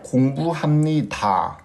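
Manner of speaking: 공부합니다 with the ending 다 held long; drawn-out final 다. Shown as a demonstration. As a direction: stretch out the last syllable 다 of 공부합니다. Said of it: "Termina normalmente en ta". (alargar la sílaba final 다 de 공부합니다)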